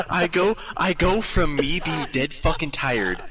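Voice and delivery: amused, slow and high; laughing. Real, not acted. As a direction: talk through the giggles. Tells his own shock.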